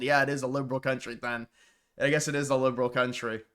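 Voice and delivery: dry, sarcastic concession. Real, not acted. Host sarcastically concedes it is a liberal country, dryly. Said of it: "I'm being sarcastic".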